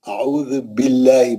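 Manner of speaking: اعوذ باللہ recited slowly, light lam; slow recitation; thin lam demo. Shown as a demonstration. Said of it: "باپ زیر آنے سے پتلا".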